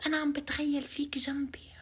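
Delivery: man doing a woman's voice. Acted. Whispered flirt.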